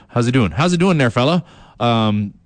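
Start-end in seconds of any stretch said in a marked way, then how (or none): 0.5-1.4 higher, hammed-up East Coast accent greeting. Shown as a demonstration. Radio host greets fans in his East Coast accent. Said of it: "I speak in a, uh, East Coast accent".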